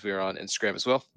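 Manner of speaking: words pushed out through a burp. Real, not acted. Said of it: "a little bit of a burp there".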